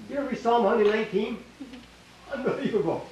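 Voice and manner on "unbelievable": ordinary talk, nothing marked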